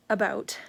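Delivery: ABOUT said clearly on its own; own pronunciation. Shown as a demonstration. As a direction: demonstrate your own way of saying ABOUT. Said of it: "it's how I say it".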